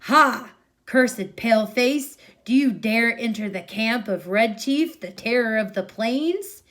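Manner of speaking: loud, booming boy playing a chief; shouted playground challenge; Red Chief war cry. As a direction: bellow it like a proud little warrior. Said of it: "and says".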